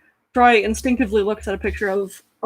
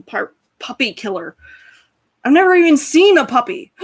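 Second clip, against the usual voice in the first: worked-up self-pity; 4 semitones higher, 3 dB louder than usual. Acted. Orc Troy laments being a beast.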